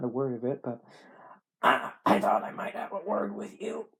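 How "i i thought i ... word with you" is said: high, drawling sick man; dying Southern man. Acted. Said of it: "like a dying Southern man".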